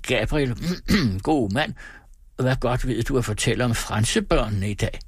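a grand man graciously asking; pompous, lordly question; stor mand demo. Acted. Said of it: "viste, hvordan en stor mand bød en mindre mand". (højtidelig stormandsstemme)

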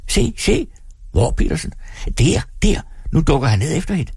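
high, fast excited onlookers pointing; excited crowd. A narrator's reading. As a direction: call out as the crowd. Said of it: "Mængden". (tilskuere der råber ivrigt)

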